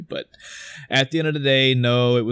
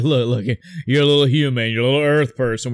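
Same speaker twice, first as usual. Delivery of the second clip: mock condescending, a bit louder; belittling; 3 dB louder, faster than usual. Thor talking down to Clint, mock condescending. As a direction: talk down to him like he's small. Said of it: "he was belittling Clint".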